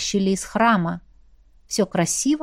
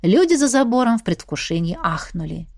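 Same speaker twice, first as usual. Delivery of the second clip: usual speaking voice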